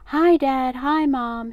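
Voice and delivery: put-on high, loud, chirpy child's greeting; cheerful. A narrator's reading. Boy greeting his parents at breakfast, cheerful. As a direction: sing out a cheery hello. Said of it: "he said cheerfully".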